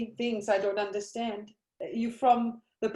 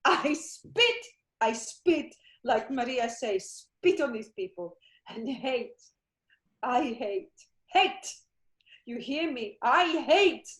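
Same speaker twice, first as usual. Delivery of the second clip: grief-stricken rage. Acted. Mother vows revenge for her son.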